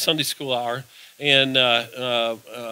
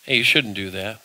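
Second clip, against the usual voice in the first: a hint of a soft inner voice of conscience; lower, softer, a quiet nudge; gentle Holy Spirit voice; 5 semitones lower, 3 dB quieter than usual. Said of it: "the Holy Spirit ... comes along and says".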